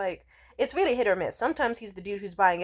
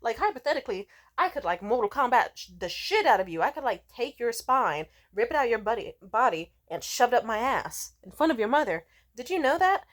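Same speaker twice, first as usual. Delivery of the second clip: lightly mocked tough-guy boasting, a bit higher; macho drunk; 4 semitones higher, 4 dB louder than usual. Drunk threatening comedians, mock macho bragging. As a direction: brag ridiculous threats with drunken machismo. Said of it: "They just wanna feel machismo as fuck".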